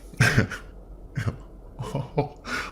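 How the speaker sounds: breathless giggle trying for a Kiwi laugh; failed Kiwi-accent laugh. Pretend. Giving up on a Kiwi accent laugh, a breathy giggle. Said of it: "I can't do a laugh in a, in a Kiwi accent".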